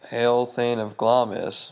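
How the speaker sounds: lightly voiced witch, slow drawn-out words; witch's hailing. A witch hails Macbeth after the battle, slow mock proclamation. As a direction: intone it slowly as a mock proclamation.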